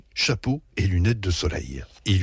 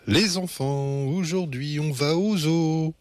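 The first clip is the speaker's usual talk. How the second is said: lightly raised, cheerful mother's call; a mom announcing a treat with mild glee; enthusiastic singsong; 6 semitones higher than usual. A narrator's reading. Mother announcing the zoo trip to her children, lightly sing-song. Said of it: "chante maman avec enthousiasme".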